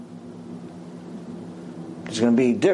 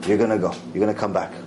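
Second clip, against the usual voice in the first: lower, assured verdict; calm ruling; 7 semitones lower, much faster than usual. Retold or imitated. Rav Ovadia telling the woman she returns, low and calm. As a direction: reassure her, low and settled. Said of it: "And then Rav Ovadia says to her".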